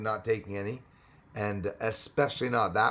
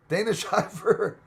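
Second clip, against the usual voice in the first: laughing; 9 semitones higher, 4 dB louder, slower than usual. Real, not acted. Laughs while naming.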